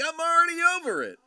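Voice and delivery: high, fast mock-jaded line; bored dismissal. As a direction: toss it off fast like you're already bored. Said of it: "Blind Cat's like".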